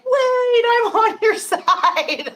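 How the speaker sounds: high, drawn-out plaintive plea; mock wailing protest. Ally mistaken for a troll pleading with attacker, mock wail. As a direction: wail it in protest, stretching the words out.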